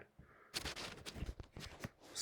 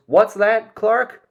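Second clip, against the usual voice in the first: high, loud questioning mom; mother asking her son who he is talking to, high and loud; Ma Kent; 8 semitones higher, 6 dB louder, slower than usual. Retold or imitated. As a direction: pitch it way up like a puzzled mother on speaker. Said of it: "Mom goes".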